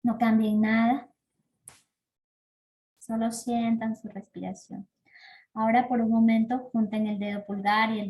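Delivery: calm breathing-practice guidance with long pauses; guided meditation. Acted. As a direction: lead them gently through each breath, letting phrase ends fade. Guía una práctica de respiración. (guía de meditación pausada y serena)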